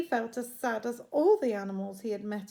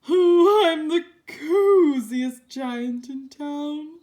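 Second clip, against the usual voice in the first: loud, higher, slow delight; happy cry; 5 semitones higher, 14 dB louder, slower than usual. Acted. George in his cosy gown, loud and slow. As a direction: sing out the joy slowly. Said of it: "he cried".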